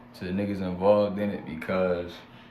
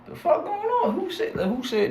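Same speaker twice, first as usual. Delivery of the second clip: getting mad; 3 dB louder than usual. Retold or imitated. Now I'm getting mad.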